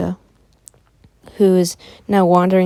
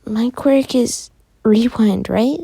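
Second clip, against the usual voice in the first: put-on high, loud, slow proud child voice; a small girl showing off what she knows; little Eri; 5 semitones higher, 4 dB louder, slower than usual. Eri proudly tells the boy her quirk in a high child voice. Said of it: "Eri says".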